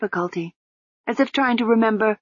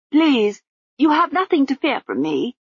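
muffled, higher woman's voice; 7 semitones higher than usual. Acted. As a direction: speak through thick bandages. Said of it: "said the muffled voice through the bandages".

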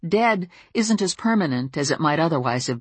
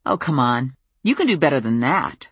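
goading. Acted. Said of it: "I goaded her".

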